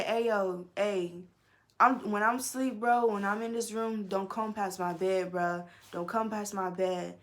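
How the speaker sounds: a hint of a tough street voice; lightly put-on tough warning; ghetto voice. Warning the roommate off her bed, lightly tough voice. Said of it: "I had to put on my ghetto voice".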